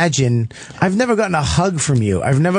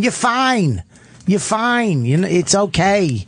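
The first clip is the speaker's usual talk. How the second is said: mock soothing; 5 semitones higher, slower than usual. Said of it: "I just picture you going".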